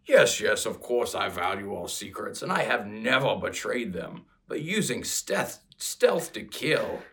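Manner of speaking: lightly voiced orc, rough and blunt. Playing Gogron the orc to his sister, lightly voiced orc scoff. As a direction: play the orc brother scoffing. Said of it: "in my best orc accent".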